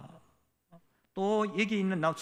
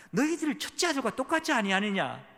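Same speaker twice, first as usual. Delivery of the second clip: raised, high-pitched accusing question; scathing rebuke; 7 semitones higher, 3 dB louder than usual. Acted. Jesus confronting Pharisees as the elder son, scathingly. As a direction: throw it at them as a pointed rebuke. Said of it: "아주 신랄하게 말하면서".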